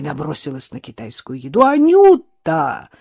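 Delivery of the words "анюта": much higher, louder, slow drawn-out cry; horrified shout. A narrator's reading. Innokenty, horrified, shouts as his dog eats takeout. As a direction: cry the name in horror. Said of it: "в ужасе закричал Иннокентий".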